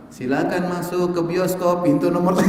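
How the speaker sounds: slow, drawn-out announcer read; cinema announcement. Retold or imitated. Preacher imitating the cinema speaker announcement, slow. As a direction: mimic a theater PA call, lightly. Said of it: "ada pengumuman".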